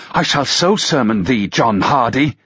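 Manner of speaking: lightly voiced young woman rebuking the drunk; scolding girl.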